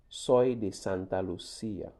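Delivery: Soy de Santa Lucia spoken slowly, soy stressed; slow model answer. Shown as a demonstration. Teacher giving her own answer as a model, slow. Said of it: "I am from Saint Lucia".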